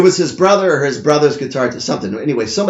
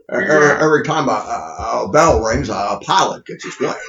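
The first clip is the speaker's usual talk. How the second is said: Jimmy Stewart voice. Acted. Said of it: "That's Petey Stewart again".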